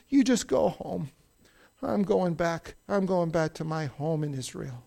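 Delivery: understated retelling of a hurting woman; sad and hurting. Retold or imitated. Grieving widow sends her daughters-in-law home, mildly sad. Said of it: "she's so sad inside".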